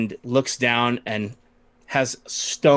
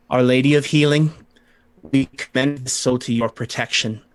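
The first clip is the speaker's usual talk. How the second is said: prayer for the dead. Acted. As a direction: intone a funeral blessing over the body. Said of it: "begins to speak the prayer for the dead".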